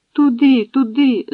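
high, loud pained cries; crying out in pain. Acted. Old woman on the coals cries out in pain, high and loud. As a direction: gasp it out while burning. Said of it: "затанцювала на жару".

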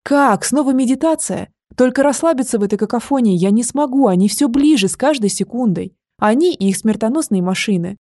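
put-on frightened girl begging the dragon, panicked; panicky pleading. Фейт в панике, голос выше.

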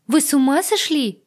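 high, loud appalled question; outraged shock. Acted. Agata to heroine, high loud outrage. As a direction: recoil and accuse.

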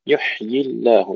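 يحيي with a vowelless ha, then a distinct ya; still ha, clear ya. Shown as a demonstration. Teacher correcting a dropped letter, clearly articulated يحيي. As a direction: rest on the ha of يحيي, then sound the ya. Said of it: "تسكين الحاء".

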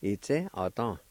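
Itse, atan as a connected two-part word; whole-word model of Itse, atan; careful pronunciation. Shown as a demonstration. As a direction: say Itse, atan clearly for learners. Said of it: "fur is pronounced like this".

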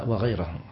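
وغيرهم with an a after the r, "ghayrahum"; accusative correction. Shown as a demonstration. Teacher correcting the student's reading, accusative وغيرهم as "ghayrahum". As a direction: say وغيرهم with fatha on the ra. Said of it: "كل بالنصب".

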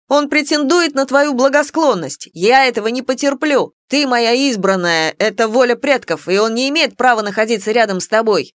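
high, loud jealous outburst; jealous rant. Acted. Dragon rants at the werewolf about his chosen one, loud and jealous. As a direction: rant possessively at the rival.

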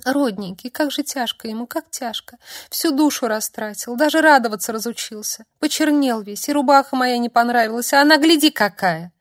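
put-on tearful girl complaining to the warrior; tearful babble. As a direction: lament through tears for him. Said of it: "гнусавым голосом пролопотала".

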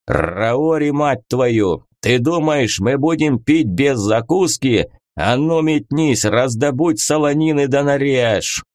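a touch of an angry bellow; angry roar. Acted. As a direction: snap the order out, irritated. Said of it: "взревел с непонятной злостью".

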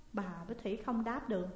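plain reading voice

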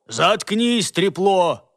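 loud cutting-off yell; angry shout. Acted. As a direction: cut him off harshly. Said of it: "перебил его басистый работник".

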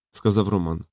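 ordinary delivery, nothing marked

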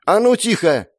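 high, loud sharp command; sharp shout. A narrator's reading. Mother silencing quarrelling kids, sharp shout. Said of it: "Резкий окрик Веры Сергеевны".

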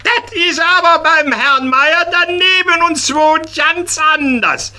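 high, indignant schoolboy voice; child protesting. Acted. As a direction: protest like a cheeky little boy. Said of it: "protestiert das Karlchen ganz feste".

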